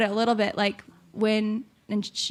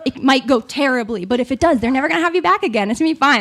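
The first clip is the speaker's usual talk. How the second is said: mirror pep talk; 4 dB louder, much faster than usual. Retold or imitated. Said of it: "I'd be like".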